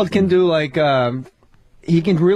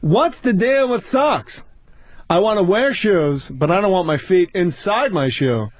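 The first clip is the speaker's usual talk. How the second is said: Seinfeld-style bit; 2 semitones lower than usual. Pretend. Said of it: "do a little more".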